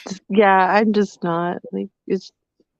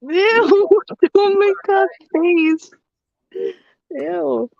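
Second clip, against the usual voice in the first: grossed-out laughing ew; 9 semitones higher, much slower than usual. Real, not acted. Grossed out at partner.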